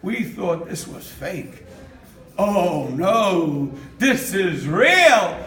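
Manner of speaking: slow, low-pitched dawning awe; stunned realization, acted. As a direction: play the neighbor slowly realizing. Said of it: "And the neighbor said".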